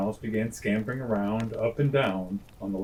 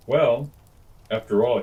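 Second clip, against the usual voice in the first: louder, amused lion voice; jolly lion; 6 dB louder than usual. Acted. Jolly lion lets the mouse off, louder. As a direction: boom it out, still jolly. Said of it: "he said".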